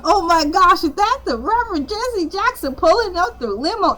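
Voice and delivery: mock excited reporter. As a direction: gasp it out as if you can't believe it. Reporter spots Jesse Jackson.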